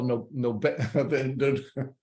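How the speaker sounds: stumbling over the name; tripping on the words, laughing; stuttering. Real, not acted. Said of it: "I'm stuttering here".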